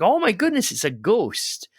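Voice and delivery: high startled cry of fear; frightened disciples. Retold or imitated. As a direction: gasp it out like you've seen a ghost. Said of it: "they're like".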